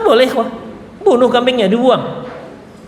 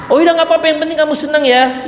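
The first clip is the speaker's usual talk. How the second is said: mock permissive father; 6 semitones higher, faster than usual. Father lets daughter stay out.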